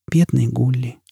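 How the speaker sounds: tender whisper. Acted. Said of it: "шептала Джизбелла".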